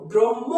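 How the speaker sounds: ব্রহ্ম said as "brom-mo"; common mispronunciation. Shown as a demonstration. Teacher isolating students' mistake, ব্রহ্ম as "brom-mo". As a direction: double the m in ব্রহ্ম, dropping the h. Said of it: "তোমরা ম বলো".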